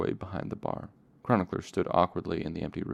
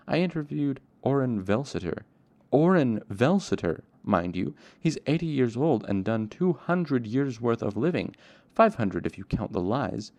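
higher, louder name-dropping; emphatic boast; 5 semitones higher, 5 dB louder than usual. Acted. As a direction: press the point, punching the famous name. Chronicler argues his case with pride.

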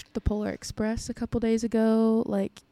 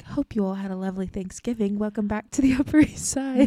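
put-on Gossip Girl narrator; 3 dB louder than usual. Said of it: "I sound in my head like Gossip Girl".

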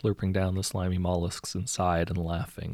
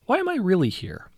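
put-on very high, loud girl's voice; high-pitched, insistent child character; questioning mermaid daughter; 11 semitones higher, 5 dB louder than usual. A narrator's reading. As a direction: press the question as a young girl. Mermaid girl asks first mate.

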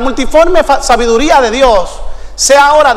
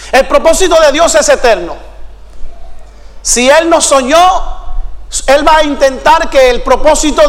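emphatic preaching. Real, not acted. Preaches at full force.

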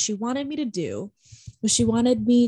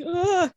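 annoyed groan; 8 semitones higher, 3 dB louder than usual. Retold or imitated. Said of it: "I was really confused and I got annoyed".

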